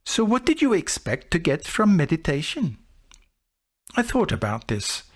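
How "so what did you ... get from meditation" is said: put-on mild Sinhalese accent. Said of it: "He said in his quaint Sinhalese accent".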